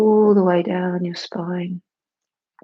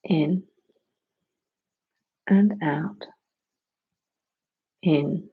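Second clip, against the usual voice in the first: whispering; 2 semitones lower, slower than usual. Acted. Breath cue in/out.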